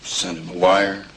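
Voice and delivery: slow, sarcastic question. Acted. Man needling her about telling the father, sarcastic. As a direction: draw it out as a dry jab. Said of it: "Please don't be sarcastic".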